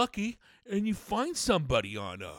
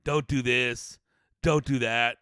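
bossy scold; 3 semitones lower, 6 dB louder, slower than usual. Retold or imitated. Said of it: "the crossing guards of the world".

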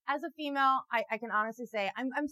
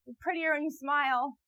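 loud, high jeering catcall; heckling a man from the bushes; mock catcall; 4 semitones higher, 5 dB louder than usual. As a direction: throw a catcaller's line back at him. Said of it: "pop out and be like".

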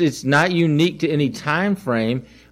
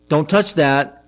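sharper, a touch louder don't touch that; a half-raised parent's warning; mild mock yell; 3 dB louder, slower than usual. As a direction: snap it like a parent at a stove. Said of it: "I had to yell at them".

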